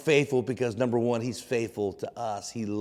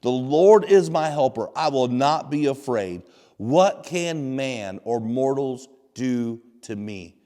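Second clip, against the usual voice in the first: scripture proclaimed with confidence, slowing at the end; confident declaration; 3 dB louder, slower than usual. Retold or imitated. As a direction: declare it firmly, opening loud. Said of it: "So we can say with confidence".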